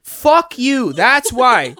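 emphatic, playful indignation; mock rant. Best friend ranting at co-host over his looks, mock angry. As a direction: curse your buddy out in jest. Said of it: "Rant over".

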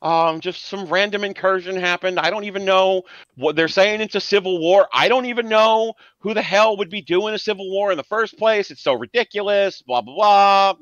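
kvetch like a Yenta mother. Retold or imitated. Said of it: "making her sound like a Yenta".

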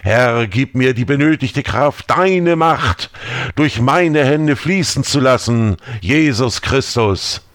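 rising, fervent exorcism prayer; incantatory prayer. Acted. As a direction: pray as if to cast out a demon. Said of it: "Isaaks Worte beschwörend". (beschwörendes Gebet)

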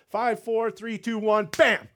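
big showman countdown; hypnotist countdown. Retold or imitated. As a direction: count them under like a stage hypnotist.

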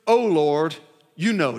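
resigned, falling answer; passive response. Acted. Ezekiel answering God's question, passive and resigned. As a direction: hand it over passively. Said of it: "Do you hear that passive response?".

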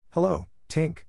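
high, wondering greeting; wondering cry. A narrator's reading. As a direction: call up in amazement. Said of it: "cried the wondering boys".

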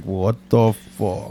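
slow, low, quiet drawn-out line; slow dazed moon creature. Pretend. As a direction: drag it out like a giant waking up. Moon cracking open and speaking.

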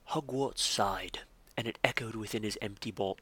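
Jim Dale narration. Retold or imitated. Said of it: "I'll do my best Jim Dale".

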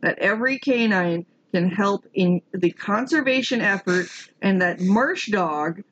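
put-on hammy Minnesotan accent. Quoting the Minnesotan founder's statement, put-on Minnesotan accent. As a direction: read it out as a proud Minnesotan. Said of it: "so I gotta do the accent".

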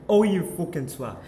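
loud laughing mock yell; a loud teasing quote; mock shout. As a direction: bellow it while laughing. Quoting someone loudly, laughing.

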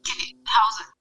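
tinny phone line; tin can phone. Real, not acted. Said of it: "it's still the same".

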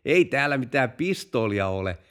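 small acted chuckle leading into the denial; chuckling. Driver denying the pistol to the chief, chuckling. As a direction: laugh it off lightly.

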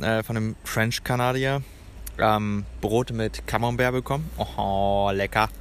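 talking with a mouth full. Real, not acted. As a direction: mouth full of bread and cheese. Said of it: "mit vollem Mund rede".

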